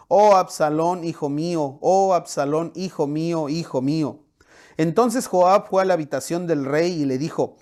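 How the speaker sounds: steady storyteller's reading of scripture; measured Bible narration. Acted. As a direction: read the passage aloud like a story to the congregation. Reads the Bible passage aloud.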